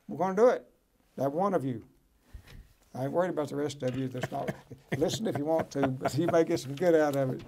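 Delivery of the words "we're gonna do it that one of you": rallying declaration. Real, not acted. Rallying the viewers.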